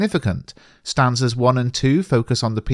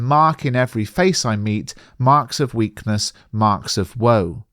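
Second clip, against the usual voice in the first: poem reading. Acted. Quotes stanza lines.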